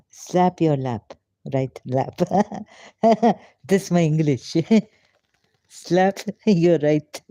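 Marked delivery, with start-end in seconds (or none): 3.0-7.2 real laughter breaking between the words; tickled, giggling through the line; laughing. Real, not acted. Translator amused by his own English rhyme, laughing.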